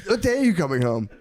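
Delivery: put-on whiny kid on the phone; little kid voice. Friend voicing Shane's son asking when he's home.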